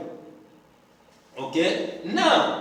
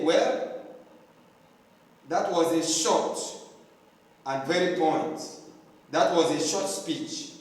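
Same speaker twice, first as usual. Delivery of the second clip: ironic praise; 4 dB quieter than usual. Pretend. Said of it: "you are being ironic".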